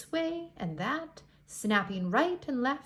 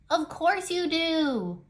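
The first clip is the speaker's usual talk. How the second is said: slow, scornful and a bit louder; dismissive; 6 semitones higher, 4 dB louder, slower than usual. Acted. Jagged-finned fish snubs the striped fish, slowly and scornfully. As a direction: drag it out to put him down.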